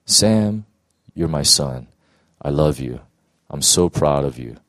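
God speaking to his son, low and tender; God's tender voice. Retold or imitated. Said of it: "This voice was so simple".

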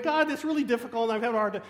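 fast, loud mock whine to God; whiny complaining. Preacher mimicking himself whining to God. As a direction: complain like a grumpy kid. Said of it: "I'm, like, complaining".

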